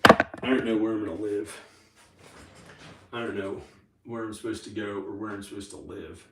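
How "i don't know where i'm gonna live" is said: repeated louder; emphatic louder repeat. Real, not acted. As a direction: say it again with more force.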